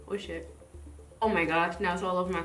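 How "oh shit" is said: ordinary talk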